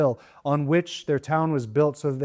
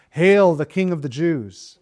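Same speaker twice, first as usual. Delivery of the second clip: loud, lightly mocking proclamation; retold jeer, hit hard on "Hail"; 6 dB louder than usual. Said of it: "mocked him".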